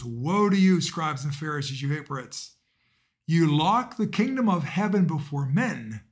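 measured, solemn proclamation of scripture; gospel reading. Acted. Priest reading the Gospel to the congregation, solemn proclamation. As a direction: read it out like the Gospel at mass.

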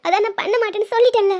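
tearful protest with sniffles; crying. Acted. Wife promises husband she won't repeat it, crying. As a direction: protest through tears. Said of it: "அழாத".

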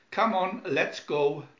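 loud urgent call; urgent shout. Acted. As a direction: hurry them along loudly. Urging crew to escape.

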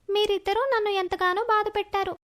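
lightly voiced girl, pitched a little up; mild, forgiving girl voice; forgiving schoolgirl. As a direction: let the hurt go as a young friend. Sumana forgives classmates.

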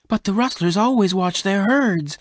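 high-pitched, agitated objection; angry protest. A narrator's reading. Bess warns Venters about armed rustlers, angry. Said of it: "She was angry".

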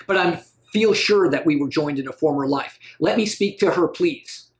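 lightly acted pleading suitor; a touch of dramatic literary dialogue; Genji. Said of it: "That's Genji talking about a little girl".

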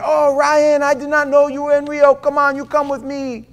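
high, loud, surprised friend; friend's greeting. Retold or imitated. Friend in Rio greeting the preacher, high and loud. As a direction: burst out with a delighted greeting. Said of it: "A friend of mine I saw".

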